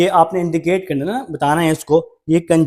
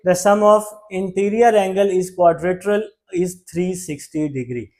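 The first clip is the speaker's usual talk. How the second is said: slow dictation read; much slower than usual. Shown as a demonstration. Teacher reads the theorem definition aloud for copying, slow and spaced. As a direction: dictate it word by word.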